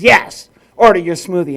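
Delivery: imitating an irate clerk, loud burst on Yes; hammed-up exasperated server; mock angry yell. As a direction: snap at the customer impatiently. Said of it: "got mad at him and yelled at him".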